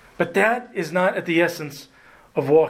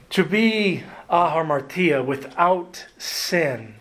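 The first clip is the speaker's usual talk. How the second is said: "ahamartia" ending with a slight Hispanic lilt; light Hispanic accent; 2 semitones higher, slower than usual. Real, not acted. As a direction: say "ahamartia" with just a hint of Hispanic accent at the end. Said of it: "a little Hispanic accent".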